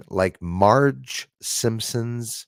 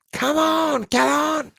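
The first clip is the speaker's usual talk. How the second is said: very high, whiny come on Kelon; high teasing whine; slower than usual. Pretend. Teasing a chat friend.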